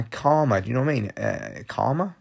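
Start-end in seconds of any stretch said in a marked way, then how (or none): 1.7-2.2 unsure. Real, not acted. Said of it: "Is that the right word?".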